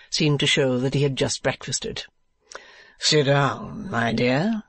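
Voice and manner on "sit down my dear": Mantalini's voice. A narrator's reading. Fop addressing Kate.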